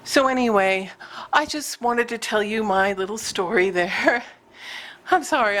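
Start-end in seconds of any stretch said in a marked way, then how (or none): 1.3-5.6 breathless talking; out of breath. Real, not acted. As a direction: talk while catching breath. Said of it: "I'm out of breath".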